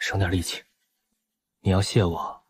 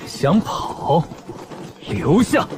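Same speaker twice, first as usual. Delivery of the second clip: 带笑威胁；笑着冷冷喝令；边笑边拦人；笑里藏刀的威胁; 9 semitones higher, much slower than usual. Acted. 反派笑着拦截.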